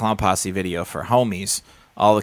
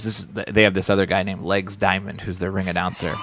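retold shout, half-hearted; mock shouting. Violent J explaining the real announcer, mock shout. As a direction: bark it out like an annoyed boss. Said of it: "And he goes".

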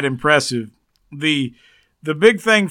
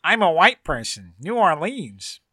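mock outsider voice. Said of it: "He is pretty white".

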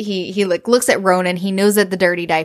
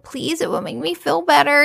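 put-on higher-pitched childlike plea; pleading little girl; 6 semitones higher than usual. Rosaline begging Jake to sing to her, pleading. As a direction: imitate a kid begging sweetly.

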